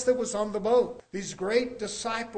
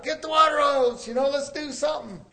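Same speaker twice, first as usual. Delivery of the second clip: raised, urgent mock panic; retold panic; 5 semitones higher, 3 dB louder than usual. Worker reacting to spilt paint, mock panic. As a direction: act out a mild scramble for help. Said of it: "I'm, like, panicked".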